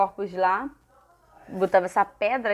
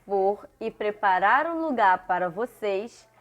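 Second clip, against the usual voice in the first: slow, measured Bible verse reading; verse recitation; slower than usual. Acted. Teacher reading Jesus's promise to children, measured recitation.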